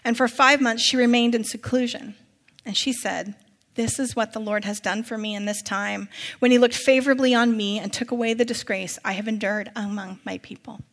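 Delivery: phrase-by-phrase Bible reading, settling at each close; measured narration with falling endings; scripture reading. A narrator's reading. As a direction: read scripture out to the congregation. Reads scripture aloud to congregation.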